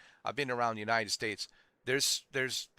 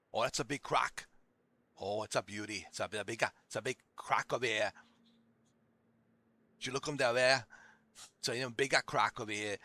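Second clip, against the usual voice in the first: mock outback Australian accent; Crocodile Dundee. Outback man spotting a big croc, mock Australian accent. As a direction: imitate a thick country Aussie accent. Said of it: "like Crocodile Dundee".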